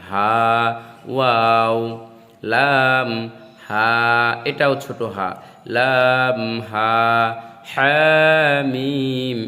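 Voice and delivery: হা said lightly, without throat pressure. Shown as a demonstration. Teacher showing the light small হা. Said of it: "উচ্চারণ হবে হালকাভাবে".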